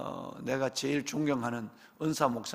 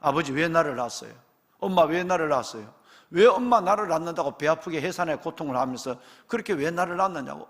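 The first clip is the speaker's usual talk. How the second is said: put-on a louder, whiny child's complaint at parents; complaining child; 5 dB louder than usual. Preacher voicing a child who blames his parents, mildly whiny. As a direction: play the resentful child blaming mom and dad. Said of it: "부모에게 대적하는 거예요".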